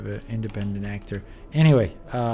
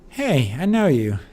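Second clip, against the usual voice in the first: lightly voiced captain; 4 semitones higher, 5 dB louder than usual. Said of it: "read these ones out".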